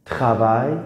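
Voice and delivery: تراوای said with a throaty kh for the r; kh-like French r. Shown as a demonstration. Teacher repeating travail for students: throaty kh r. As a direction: rasp the r in تراوای like kh. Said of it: "چون سی و آر اومده".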